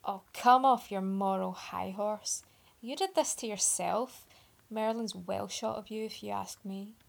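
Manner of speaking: a light sneering brush-off; mock scorn, lightly voiced; dismissive sneer. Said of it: "sneered dismissively".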